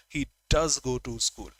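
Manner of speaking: "does" pressed firmly; stress on DOES. Shown as a demonstration. Teacher contrasting with "goes", stressing "does". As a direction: lean on "does". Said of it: "Just emphasizing the verb".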